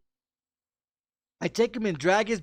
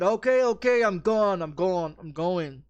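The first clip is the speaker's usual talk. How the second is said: backing down. Retold or imitated. Drunk backs off after the threat.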